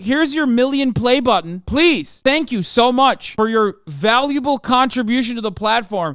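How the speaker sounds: voicing YouTube begging him to continue; fawning YouTube. Streamer mocking YouTube's reward, gushing fawning tone. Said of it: "YouTube was like".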